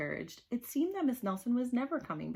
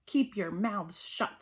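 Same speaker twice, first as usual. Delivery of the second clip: stern teacher; slower than usual. Acted. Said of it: "said Miss Swamp".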